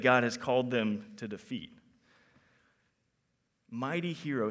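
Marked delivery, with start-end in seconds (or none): 3.7-4.5 quiet musing. Shown as a demonstration. Preacher wondering at God's greeting, soft musing. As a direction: let Mighty hero fall quietly like a puzzled thought. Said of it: "What a strange thing to say".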